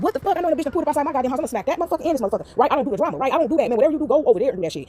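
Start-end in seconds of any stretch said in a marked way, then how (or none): 0.0-2.5 re-enacted indignant rant, pitched up; retold upset. Retelling the first reaction to a car outside, upset. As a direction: act out being upset and fed up. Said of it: "I was so upset 'cause I'm like".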